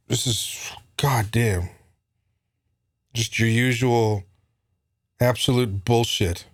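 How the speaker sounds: whispered under the breath; disgusted whisper. Real, not acted. Muttering about Pelosi, whispered disgust.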